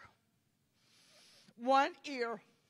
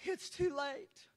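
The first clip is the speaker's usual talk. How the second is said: soft, subdued regret; sorrowful Jesus; 5 dB quieter than usual. Retold or imitated. Preacher voicing Jesus shaking his head, sorrowful. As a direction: say it quietly, as final bad news. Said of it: "And Jesus shaking his head".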